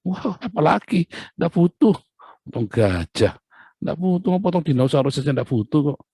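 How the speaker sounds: God shrugging off even a dinosaur, amused and dismissive; God dismissing. Acted.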